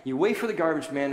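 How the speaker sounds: put-on a mother snapping at her boy to sit and wait; retold scolding. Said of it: "I lost my temper".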